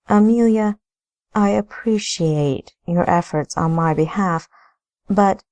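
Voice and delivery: a hint of a polite lady; lightly voiced lady. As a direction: raise the voice a bit for Amelia. Narrator voices Amelia.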